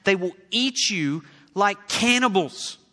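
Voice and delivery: loud, high, urgent plea; a lightly voiced worried old friend; warning friend. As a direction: beg him not to go, half acted. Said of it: "One of his friends told him".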